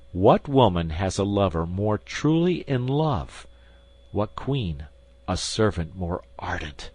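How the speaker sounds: ordinary delivery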